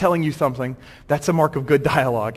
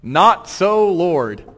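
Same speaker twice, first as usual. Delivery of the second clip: bold; 4 dB louder, much slower than usual. Acted. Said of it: "boldly says".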